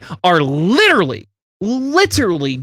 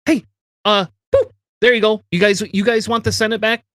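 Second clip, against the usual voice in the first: mock careless Biden; 3 semitones higher than usual. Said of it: "a president that's gonna go".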